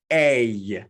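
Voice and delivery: A said long and clear as a model sound; teacher modelling the sound A; vowel demo. Shown as a demonstration. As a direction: hold the vowel A for the class to copy.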